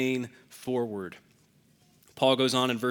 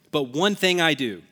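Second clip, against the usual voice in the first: ONE punched and lifted; dramatic, emphatic; 3 dB louder than usual. Retold or imitated. Preacher quoting Paul's resolve, dramatic stress on ONE. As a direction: hit the word "one" emphatically. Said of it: "It's very dramatic and very emphatic".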